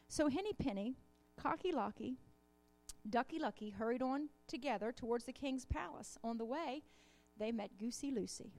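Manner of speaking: storybook read-aloud with lightly voiced animals; reading a children's story. A narrator's reading. Reads children's tale in sermon.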